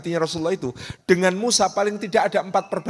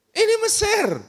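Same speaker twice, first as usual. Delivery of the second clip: mock Egyptian gossip. Repeated, even higher.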